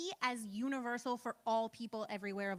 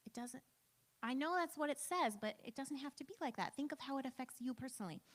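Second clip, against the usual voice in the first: gentle, patient. Retold or imitated. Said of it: "so gently and so patiently saying".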